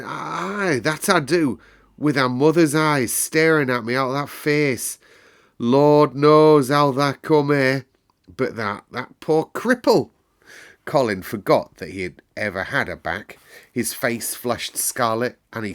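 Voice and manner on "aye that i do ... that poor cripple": put-on an old man seeing a ghost; higher, louder awed old gardener; shaky old man. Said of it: "strange, shaky voice".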